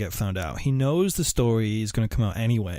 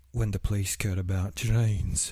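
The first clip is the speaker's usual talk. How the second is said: lightly put-on northern accent, slightly lower; Dennis Nilsen impression; 3 semitones lower than usual. Host imitates Dennis replying to police, mild northern accent. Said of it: "a more spot-on personation of him".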